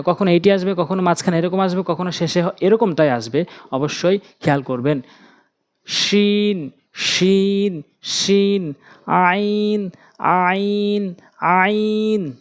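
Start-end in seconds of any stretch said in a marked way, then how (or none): 5.9-12.3 আইন said with firm pressure from the throat; firm throaty recitation of আইন; pressed letters. Shown as a demonstration. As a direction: press each আইন hard. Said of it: "চাপ দিয়ে উচ্চারণ করবেন".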